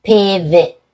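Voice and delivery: "Pivot" drawn out slowly, T held, then released; slow-motion "Pivot" with a delayed T release; slowed down, stop before release. Shown as a demonstration. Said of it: "I'll slow it down".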